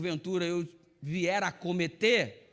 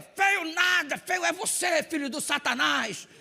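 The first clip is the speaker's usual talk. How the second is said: higher, louder indignant outburst; mother's mock fury; 10 semitones higher, 4 dB louder than usual. Mother yells back at her son's friends, higher and louder. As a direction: fire back hard to defend your son. Mother defends son fiercely.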